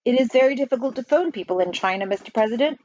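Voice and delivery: lightly voiced official explaining; postmaster general. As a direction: pitch up a little and explain. Postmaster general speaks in character.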